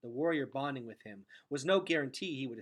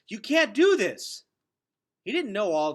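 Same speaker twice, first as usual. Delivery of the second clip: desperate protest; 9 semitones higher, 14 dB louder than usual. A narrator's reading. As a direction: cry out against it. Gregor protests, out of breath.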